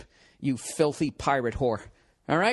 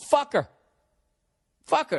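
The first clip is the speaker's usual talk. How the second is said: angry shout; 10 semitones higher than usual. Acted. Ranting at a dumped guy, furious shout. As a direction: bark it out in disgust.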